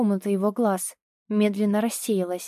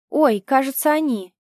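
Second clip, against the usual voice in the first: sudden excited cry, a touch louder; startled, pointing it out; excited spotting; 4 semitones higher, 5 dB louder than usual. Acted. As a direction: call out as if you just spotted them. Friend spots the boys.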